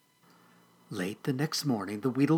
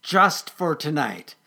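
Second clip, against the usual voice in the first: slow, louder grudging concession; grudging mutter; 4 semitones higher, 6 dB louder, slower than usual. Acted. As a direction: concede slowly and firmly. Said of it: "he muttered".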